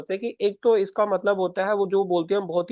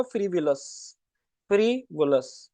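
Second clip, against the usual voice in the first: slow repetition; much slower than usual. Shown as a demonstration. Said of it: "teacher repeats new word".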